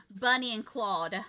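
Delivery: laughing through the pun, slowed. Real, not acted. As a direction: chuckle it out slowly. Jokey pun on the name.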